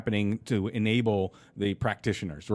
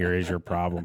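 put-on robotic, mechanical, machine-like delivery; 3 semitones lower than usual. Voicing a little robot that rolls up to you, robot voice. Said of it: "That's my robot voice there".

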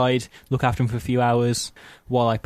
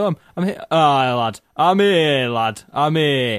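very slow, unhurried, drawn-out voice; 3 semitones higher, 4 dB louder than usual. Retelling a phone call with a late friend, imitating James's voice. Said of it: "like that, because that's how you sound".

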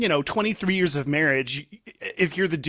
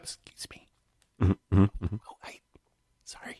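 barely audible, very quiet, mouthed whisper; 9 semitones lower, 5 dB quieter than usual. Reenacting saying excuse me while walking past a stranger, retelling own quiet whisper. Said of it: "for some reason I'm whispering so quietly".

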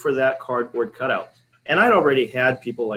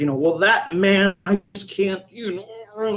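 high, flustered, halting, upset sputtering; 7 semitones higher than usual. Speaker retells what an upset woman said, imitating her sputtering. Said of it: "she sputtered".

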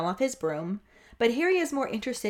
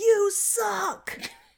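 put-on very high, jeering booing yell; 11 semitones higher than usual. Imagining the crowd booing the Dementors: imitating a crowd yelling. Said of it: "imagining the crowd booing the Dementors and yelling".

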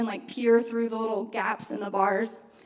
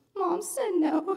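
put-on dejected mope, slow, sad, pitched up; 8 semitones higher than usual. Retelling a little brother coming back upstairs: imitating someone slow and sad. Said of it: "all slow and sad, and he'd be like".

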